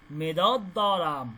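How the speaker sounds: মেদত দরাম drawn out slowly, মেদত stressed low; slow model phrase. Shown as a demonstration. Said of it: "এই যে বালে মানে হ্যাঁ". (মেদত দরাম ধীরে টেনে)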